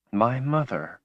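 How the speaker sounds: high, soft, tearful sob; sobbing. Acted. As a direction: choke out the words through tears. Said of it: "she sobbed".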